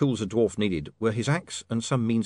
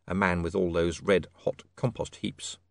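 plain reading voice

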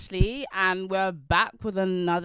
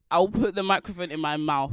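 too close to mic; 7 dB louder than usual. Real, not acted. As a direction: mouth on the mic. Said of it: "you vomit in the mic?".

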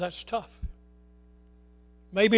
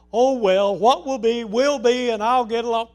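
shrugging attitude; 3 semitones higher, 9 dB louder than usual. Acted. Mocking a careless attitude.

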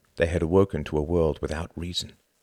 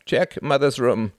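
raised, higher-pitched command; urgent order; 6 semitones higher, 4 dB louder than usual. A narrator's reading. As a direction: send her off sharply and loudly. Son orders sister, eyes blazing.

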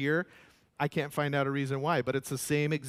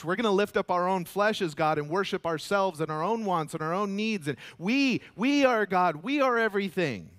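defiant proclamation; 3 semitones higher, 3 dB louder than usual. Acted. World defying God, preached loudly.

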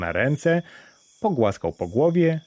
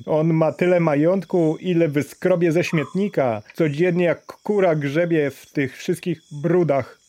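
mocking laughter; 7 semitones higher than usual. A narrator's reading. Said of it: "zaśmiewali się ludzie".

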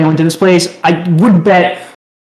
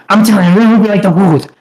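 quick, lightly imitated self-declared Italian chef; weird forced Italian; much faster than usual. Chef greets diners at the table, weird, quickly mimicked forced Italian. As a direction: rattle it off in a half-successful chef impersonation. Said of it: "He said it in such a weird way".

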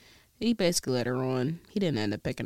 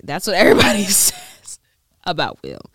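words breaking up into breathy laughter; laughing; 3 semitones higher, 7 dB louder than usual. Real, not acted. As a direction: laugh through the words, losing your voice. Breaks up laughing about Will.

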